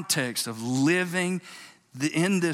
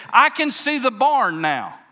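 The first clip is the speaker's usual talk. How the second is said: much higher and louder, slow and ringing; triumphant holler; 11 semitones higher, 8 dB louder than usual. Retold or imitated. Boy reaches the barn and hollers to his father: a slow triumphant shout. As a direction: shout it out as the goal comes into view. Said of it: "he hollers back at his daddy".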